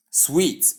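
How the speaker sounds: "sweet" as one syllable with long ee; pronunciation of suite. Shown as a demonstration. Teacher contrasting spelling and sound, suite said as "sweet". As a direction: say suite as "sweet", set apart. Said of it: "So we call the word".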